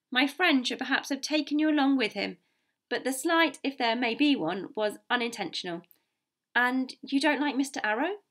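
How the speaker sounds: measured doctor, lifted above the narration; lightly voiced diplomatic gentleman; composed, courteous doctor. Doctor soothes the captain over a slight, courteous.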